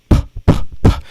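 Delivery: "puh" popped hard with a burst of air on the mic; exaggerated plosives. Shown as a demonstration. Host shows listeners plosives close on the mic, popping each "puh". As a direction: hit each "puh" as a hard, separate pop. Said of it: "You can hear me if I go".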